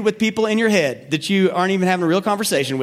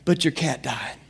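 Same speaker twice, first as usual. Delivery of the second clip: mock sincere condolence; 2 semitones lower, 4 dB quieter than usual. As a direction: break it gently, with acted sincerity. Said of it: "with a big, sincere hug".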